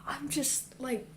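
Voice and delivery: faint tired voice; weak and tired. Real, not acted. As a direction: sound drained and lightheaded. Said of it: "I'm really lightheaded and weak and tired".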